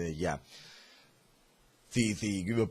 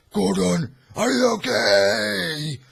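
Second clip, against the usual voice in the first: higher, louder worried call; worried Batman; 8 semitones higher, 7 dB louder, slower than usual. Retold or imitated. Batman finds Gordon, hammed-up worried call. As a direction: call out with concern. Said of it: "and is like".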